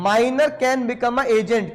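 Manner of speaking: very slow, word by word; teacher dictating the answer slowly; slow dictation. Shown as a demonstration. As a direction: spell the rule out slowly. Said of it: "dictating the rule".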